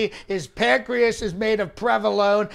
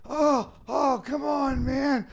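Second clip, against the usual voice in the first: a high, put-on flustered old man's whine; mock Biden; 6 semitones higher, slower than usual. Comic mocking the president, high whining.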